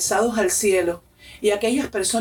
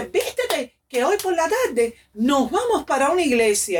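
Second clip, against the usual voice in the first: eager urging; 5 semitones higher than usual. Retold or imitated. Little sister tells her to dress for church, eager.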